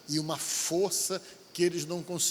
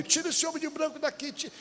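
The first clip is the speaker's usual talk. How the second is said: put-on possessed girl's cry; 11 semitones higher than usual. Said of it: "ela veio".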